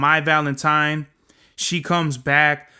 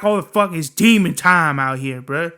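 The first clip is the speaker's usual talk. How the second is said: ordinary talk, nothing marked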